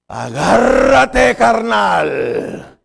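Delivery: slow, loud startled cry from the dad; a loud, drawn-out jolt of alarm; startled shout. Retold or imitated. Father's startled reaction to child.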